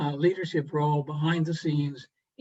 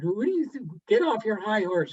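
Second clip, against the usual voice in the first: higher, mildly mock-indignant retort; retold indignation; 5 semitones higher than usual. Governor rebuking Dudley in his office, mock indignation pitched higher. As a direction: play the governor's affronted outburst, lightly. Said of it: "he got all incensed".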